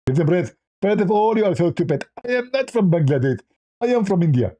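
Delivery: indignant high lisping impression; Zakir Naik. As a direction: protest with an exaggerated lisp. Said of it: "Even Zakir Naik, if we call him".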